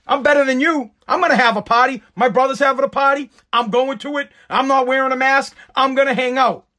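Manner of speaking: mocking a smug politician flaunting her party. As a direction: sneer it like you're above the rules. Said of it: "puts her fingers up to us all and says".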